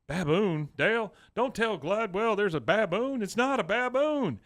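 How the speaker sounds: high, agitated mock disbelief; acted-out exasperated objection; incredulous retold protest. Retelling Hank's disbelief at Dale.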